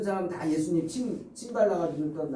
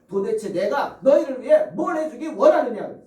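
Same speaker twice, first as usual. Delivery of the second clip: louder, pressing question of the Lord; forceful preaching voice; 4 semitones higher, 8 dB louder than usual. Acted. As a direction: boom it out as a challenge. (크고 힘차게 묻는 주님의 음성)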